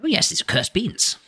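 lightly voiced fussy gnome; a hint of a curious old gnome.

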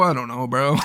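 put-on Brooklyn accent. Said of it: "And now we got a Brooklyn accent".

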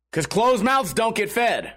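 slow, self-satisfied quote of the waitress; smug saying. Retold or imitated. The waitress smugly hands the streamer a slow proverb. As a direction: lay out the saying slowly like a lesson. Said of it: "And then she goes".

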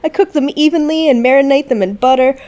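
mock sales pitch. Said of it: "somebody posted it to some group saying".

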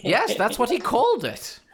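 put-on short merchant line in Swedish accent. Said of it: "the accent is brutal".

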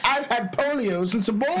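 hammed-up British gentleman accent; mock posh British accent. Claims a childhood illness, in a mock posh British accent. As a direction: confess it like a stuffy British gent. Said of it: "I've talked like this my whole".

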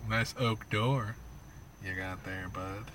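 low, slow, quiet menace; a quiet mobster warning over his door; smiling menacing loan shark. Pretend. Mock threat to neighbor.

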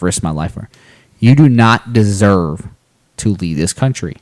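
slow, firm appeal to voters; earnest appeal. Real, not acted. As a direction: deliver it like a plea.

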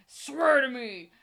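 loud, drawn-out mock scream; Batman. Imitating the hero screaming mid-danger, hoarse mock yell. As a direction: yell it slowly like an over-the-top hero. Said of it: "screaming at the top of his lungs like he's Batman".

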